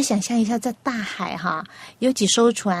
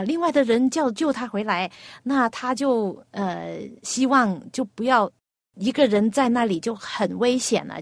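ordinary delivery

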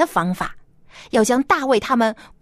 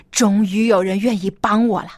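pleased king. Acted. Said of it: "高兴极了".

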